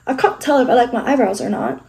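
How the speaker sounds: accidental hint of British; British accent. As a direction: slip lightly into a British accent. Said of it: "I don't know why I turned British".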